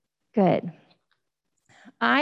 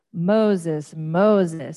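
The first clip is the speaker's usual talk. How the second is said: mild loud call a little lower; 3 semitones lower, 3 dB louder than usual. Acted. God calling Moses from the bush, a mild loud call. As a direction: call his name out, slightly lower. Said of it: "said a loud voice".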